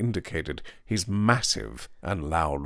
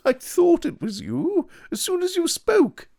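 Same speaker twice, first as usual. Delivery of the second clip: high, light and pleased; a lilting drawing-room tone; slender man's voice; 4 dB louder than usual. A narrator's reading. Slender man greets his old schoolfellow, high and pleased. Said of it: "said the slender man".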